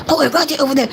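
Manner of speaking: mean. Shown as a demonstration. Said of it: "he didn't say it mean".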